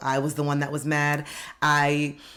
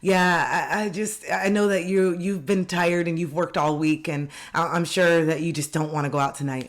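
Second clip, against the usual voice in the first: faked understanding; projecting friend; 3 semitones higher than usual. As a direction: put your tiredness on them. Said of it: "so you project".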